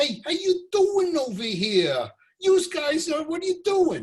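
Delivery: put-on thick, big New York accent, very high-pitched. Speaker retelling walking into a bank, greeting the banker in a big New York accent. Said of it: "I have this big New York accent".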